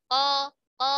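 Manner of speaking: Ko with the tongue further back; back-of-tongue Ko for qaf; deep qaf. Shown as a demonstration. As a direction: say Ko deep in the mouth, not forward. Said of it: "Ko agak ke dalam".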